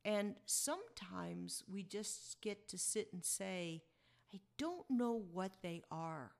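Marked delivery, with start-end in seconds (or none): 4.3-6.4 slow whisper of an inner thought; a slow, hushed whisper. Shown as a demonstration. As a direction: breathe it as if to yourself.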